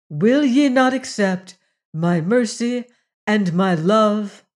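lightly voiced goddess addressing her people; solemn goddess oration. Goddess proclaiming a new law to the people of the mist, solemn.

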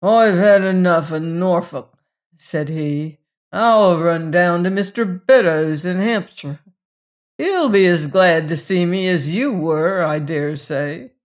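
a touch of a tipsy sailor leaving in a huff; thick half-drunken voice. Acted. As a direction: sound half in your cups and surly. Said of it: "in the thick voice of a half-drunken man".

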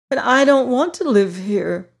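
cried out. Acted. Dorothy protesting to her friends, cried out. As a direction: push back like a girl who wants home. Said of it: "cried Dorothy".

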